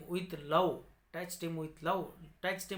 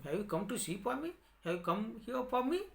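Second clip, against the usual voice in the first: quick, lightly higher bird voice; bird of happiness; 5 semitones higher, much faster than usual. Acted. Bird of happiness asks the boy, quick and lightly higher. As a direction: rattle it off a little higher, gently asking. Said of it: "The bird of happiness asked him".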